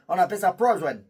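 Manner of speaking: prison said with a mock English sound, like prozhen; fake English prison. Shown as a demonstration. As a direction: toss out prison as a joking English word. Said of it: "Ça, c'est en anglais". (prison prononcé en faux anglais, comme prozhen)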